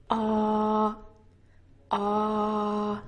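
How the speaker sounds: "Ah" held steady with a very open mouth; open rounded vowel. Shown as a demonstration. Teacher modeling the vowel, open-mouthed rounded ah. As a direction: open wide and round the lips slightly on "Ah". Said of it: "said with a very open mouth".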